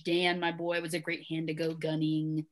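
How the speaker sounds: put-on light New England accent, reading aloud; amateur Boston accent, dropping some R's; attempted Boston accent. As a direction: have a rough go at a Boston accent. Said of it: "that's my attempt at an accent".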